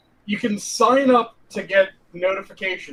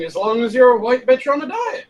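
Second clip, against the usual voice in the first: louder and higher, teasing; emphatic teasing repeat; 6 semitones higher, 6 dB louder than usual. Real, not acted. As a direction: punch it out louder, mocking. I thought that was pretty clear when I asked.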